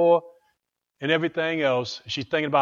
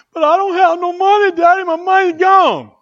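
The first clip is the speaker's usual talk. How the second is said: put-on sad little girl; 14 semitones higher, 7 dB louder than usual. Little girl tells daddy her money is gone, high and plaintive. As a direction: plead like a heartbroken five-year-old.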